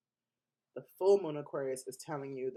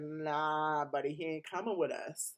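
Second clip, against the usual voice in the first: louder, higher mock brush-off; a sassy, scornful dismissal; dismissive put-down; 3 semitones higher, 4 dB louder than usual. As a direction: wave him away like a nobody. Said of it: "The new world said".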